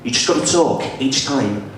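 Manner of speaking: comic Scouse demonstration; Scouse accent. Shown as a demonstration. Comedian teaching the crowd how to do Scouse, Scouse accent. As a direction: explain it in a put-on Scouse accent. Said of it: "like Scouser".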